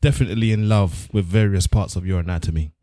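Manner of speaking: slow, solemn poem reading; poem recital. Pretend. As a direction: recite it slowly like grand poetry. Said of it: "a short excerpt from a poem".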